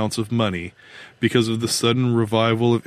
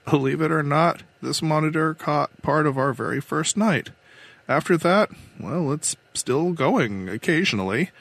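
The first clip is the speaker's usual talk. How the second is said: lightly voiced woman captain, higher pitch; control captain, confiding; 5 semitones higher than usual. Captain admits a long secret affair, confiding. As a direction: confide it in a lightly raised character voice.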